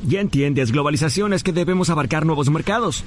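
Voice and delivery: put-on neutral dubbing Spanish. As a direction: explain it like a dubbed film character. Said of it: "¿por qué hablas así?".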